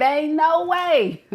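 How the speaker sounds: slow, flat refusal with weight on NO; dismissive Libra. Retold or imitated. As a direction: draw it out like you're done with them. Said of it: "Libra said".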